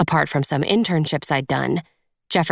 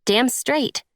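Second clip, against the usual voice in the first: higher, teasing agreement; playful quip; 9 semitones higher than usual. A narrator's reading. Friend lightening the gloomy mood, higher and playful. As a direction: toss it off to lighten things. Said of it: "trying to lighten the mood".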